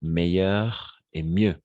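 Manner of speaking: slow, deliberate "Meilleur et mieux"; each word laid out slowly; slow careful model. Shown as a demonstration. Teacher models the two words slowly for Spanish-speaking students. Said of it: "Euh, attention".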